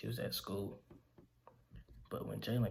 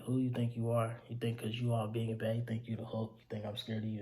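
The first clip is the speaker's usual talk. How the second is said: retold yelling. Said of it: "she started yelling at him".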